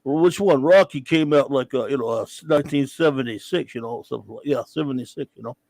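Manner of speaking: lightly done mumbling Rocky Balboa voice; hint of a slurred Philly boxer; bad Rocky impression. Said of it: "this annoying Rocky stupid voice, really bad Rocky impersonation".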